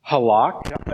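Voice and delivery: "Halak" said huh-LAHK, stress on the last syllable; Hebrew halak. Shown as a demonstration. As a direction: sound out "Halak" slowly with a clear final k. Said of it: "Everybody say halak".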